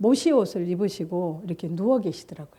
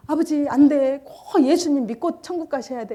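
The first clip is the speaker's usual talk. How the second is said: higher, louder urgent plea; strong pleading; 5 semitones higher, 4 dB louder than usual. Retold or imitated. Daughter urging her dying father, higher and louder. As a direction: beg him hard not to give in. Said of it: "제가 막 강하게 그랬어요".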